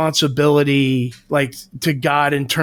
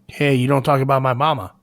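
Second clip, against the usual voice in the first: put-on a slight, quick Italian accent; faster than usual. An Italian defending his mama, slight Italian accent. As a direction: lightly imitate an offended Italian, said quickly. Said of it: "Italian accent right there?".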